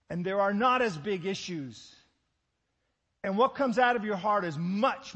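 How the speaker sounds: loud, high impassioned sermon; full-force preaching. Acted. Preacher urging the congregation about the heart, impassioned loud preaching. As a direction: drive the point home to the congregation.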